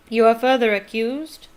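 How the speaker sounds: loud stern bellow; a judge bellowing the charge; loud booming accusation. Acted. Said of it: "bellowed Mister Crouch".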